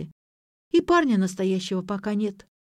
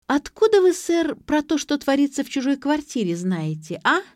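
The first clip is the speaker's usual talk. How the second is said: tipsy bravado, voice jumping up; cheeky drunken challenge; 6 semitones higher than usual. A narrator's reading. (пьяный дерзкий вызов)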